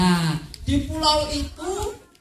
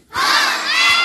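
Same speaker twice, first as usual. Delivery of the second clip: cheer; 13 semitones higher, 8 dB louder than usual. Acted. Children's cheering call-response.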